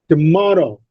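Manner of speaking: "Tomorrow" with MOR stressed; stress on second syllable. Shown as a demonstration. Teacher models "Tomorrow" for students, stressing MOR. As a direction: lean on MOR in "Tomorrow", light first syllable. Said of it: "the second syllable is stressed".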